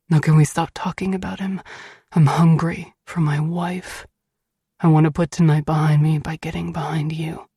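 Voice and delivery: slightly deepened, brisk husband voice; amorous Beast. A narrator's reading. Beast wooing his wife away from the subject, amorous. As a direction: come on to her with cheesy confidence.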